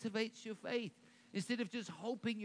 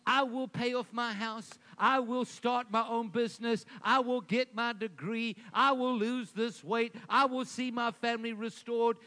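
louder, firm list of promises; bold declaration; 5 dB louder than usual. Shown as a demonstration. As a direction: claim each one. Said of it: "said with your mouth".

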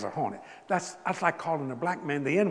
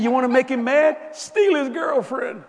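joking advice; 9 semitones higher, 9 dB louder than usual. Retold or imitated.

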